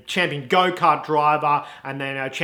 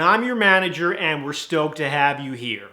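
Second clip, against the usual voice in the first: lightly put-on American manager; American accent. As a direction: welcome with a loose American accent. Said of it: "'cause he's American".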